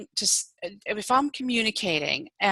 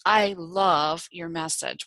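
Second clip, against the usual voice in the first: slow, calm reassuring phrase; calm reassurance; 3 semitones lower, slower than usual. Acted. Speaker models supportive reassurance, calm and slow. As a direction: reassure them slowly and gently. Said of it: "I'm gonna be calm".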